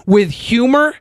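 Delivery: slow, deadpan formal statement; mock official disclaimer. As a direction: read it like a stiff press release. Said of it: "here's your Dave Chappelle disclaimer".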